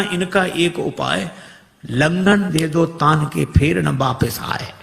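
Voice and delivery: slow, measured recital of the rhyme; slow sing-song proverb. Shown as a demonstration. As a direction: spell out the old saying slowly. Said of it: "recited proverb couplet".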